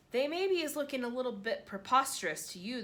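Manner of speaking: the BFG's odd grammar, gently played; a hint of a kindly giant. BFG voiced in narration.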